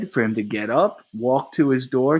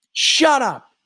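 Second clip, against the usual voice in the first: furious shout; 6 dB louder than usual. Acted. Three explodes at Eight.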